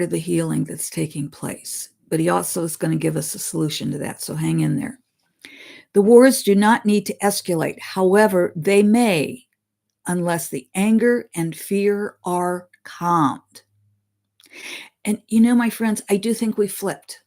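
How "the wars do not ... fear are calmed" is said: measured, slightly raised reading voice; solemn read-aloud of a spirit's words; reading a channeled message. Acted. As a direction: deliver the message deliberately, like scripture.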